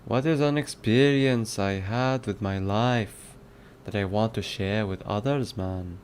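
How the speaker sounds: mock Jamaican reading voice; Jamaican accent. Shown as a demonstration. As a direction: read it out in a put-on Jamaican accent. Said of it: "Do a Jamaican accent".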